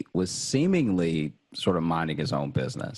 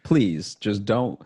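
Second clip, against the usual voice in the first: desperate pleading; 5 semitones higher, 3 dB louder than usual. Retold or imitated. Begging the bank on the phone.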